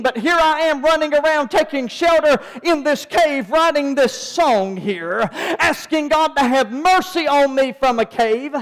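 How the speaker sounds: urgent preacher in full flow, phrase piled on phrase; driven preaching. Real, not acted. Preacher telling congregation of David hunted by Saul, driven preaching. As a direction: preach it hard and relentlessly.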